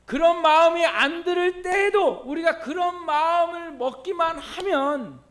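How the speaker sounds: loud, high, emphatic preaching; forceful preaching. Real, not acted. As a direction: press the point home to the congregation at full voice.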